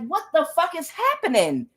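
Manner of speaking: high, baffled question; retold bewilderment. Woman recalling repeated fights with her sister, bewildered.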